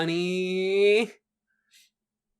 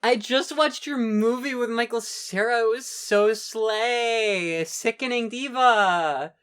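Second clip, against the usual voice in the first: lightly voiced gushing fan; giddy disbelief; 3 semitones higher than usual. Fan gushing, continued impression.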